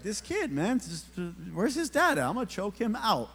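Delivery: mildly hammed-up irritated dad. Irritated dad at a party fuming about the kid hitting his son, mock exasperated. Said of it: "I'm getting irritated".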